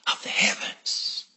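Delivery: whispered end of the verse. Real, not acted. Preacher whispering scripture to the church. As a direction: breathe the last words as a whisper.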